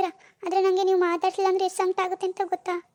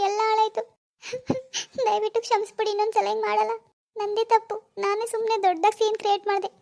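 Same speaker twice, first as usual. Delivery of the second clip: tearful pleading; 3 semitones higher than usual. Acted. Wife begging forgiveness tearfully.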